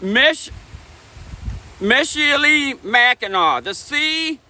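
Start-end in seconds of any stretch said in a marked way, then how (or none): 1.8-3.6 "Michilimackinac" with the final C said like "aw"; MISH-ill-ee-MACK-in-aw, no K at the end; careful pronunciation. Shown as a demonstration. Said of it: "the C is pronounced like a W".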